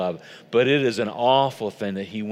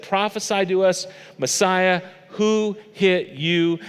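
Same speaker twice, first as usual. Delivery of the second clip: mocking taunt; 6 semitones higher, slower than usual. Soldiers mocking Jesus.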